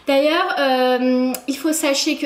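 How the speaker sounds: slow mock-pompous delivery; drawn-out jokey announcement; joking voice. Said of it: "non, je rigole".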